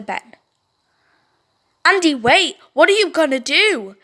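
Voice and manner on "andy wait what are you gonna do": calling out. Acted. Tom calls after Andy.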